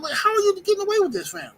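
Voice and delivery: very high-pitched, baffled question; acted incredulity. Visitor questioning dudes selling weed, acted incredulity.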